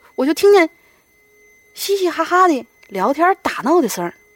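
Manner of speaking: Northeastern Chinese accent. Speaker narrates hearing chatter outside a dorm, in a Northeastern Chinese accent. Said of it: "怎么成东北话了".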